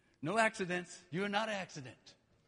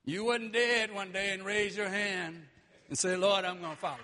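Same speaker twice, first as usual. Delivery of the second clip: mocking, low and laughing; sarcastic; 4 semitones lower than usual. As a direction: sneer at the idea with a chuckle. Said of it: "I know I'm being sarcastic".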